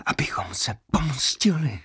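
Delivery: unvoiced whisper in his ear. A narrator's reading. Prisoner whispering revenge into Leo's ear. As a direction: lean in and whisper the vow. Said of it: "zašeptal".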